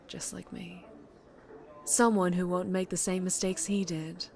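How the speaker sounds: a lady crime boss, lightly voiced, silky and sure; smooth mob boss. Mob boss bidding her old employee goodbye, silky and sure. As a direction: purr it like she owns the room.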